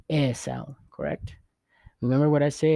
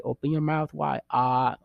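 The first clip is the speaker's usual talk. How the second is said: doctor's instruction. Retold or imitated. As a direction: playfully quote the doctor, then open on ah. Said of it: "like when you go to the doctor and say".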